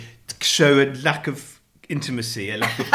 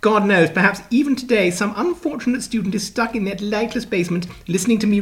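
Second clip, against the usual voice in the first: posh received pronunciation read-aloud; mock RP; 3 semitones higher than usual. Husband reads Rachel's column aloud, mock RP accent. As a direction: put on a cut-glass RP accent.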